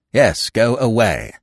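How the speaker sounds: slow and final; firm, slow dismissal. Acted. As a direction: spell it out deliberately.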